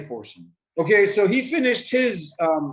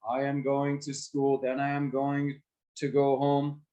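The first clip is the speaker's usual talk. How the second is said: flat one-level delivery with no rise or fall; monotone; 3 semitones lower than usual. Shown as a demonstration. Teacher showing students a dull monotone. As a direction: read it like a bored list. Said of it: "That's all monotone, exactly, one level voice".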